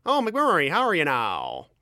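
put-on broad Ontario hick accent; Letterkenny hick accent. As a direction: rural Ontario hockey-town banter in a thick accent. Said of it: "Letterkenny got Jared Keeso".

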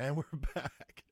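slow, stretched "we're back" with a laugh; drawn-out show return. Pretend. Host repeating the return after a break, slow and amused. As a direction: draw out BACK at half speed.

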